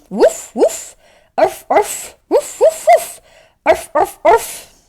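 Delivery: high, loud playful barking, woof and arf; dog song barks. Pretend. Teacher leads the kids in a dog song, high playful barking. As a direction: yip it out like a happy puppy. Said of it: "Let's sing a dog song".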